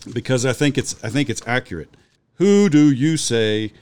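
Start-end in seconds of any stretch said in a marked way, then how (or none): 2.3-3.7 "Who do you say that I am?" read slowly and evenly; slow, deliberate literal rendering. Shown as a demonstration. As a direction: read it word by word like a literal translation. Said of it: "basically, is a literal translation".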